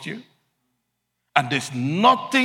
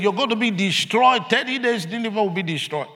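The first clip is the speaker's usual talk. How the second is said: prophetic warning; 7 semitones higher, 4 dB louder, faster than usual. Retold or imitated. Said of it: "He said".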